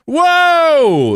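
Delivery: sudden high yelp of surprise; a startled whoa at the chat; surprised whoa. Real, not acted. Streamer startled by a viewer begging for subs, high yelp.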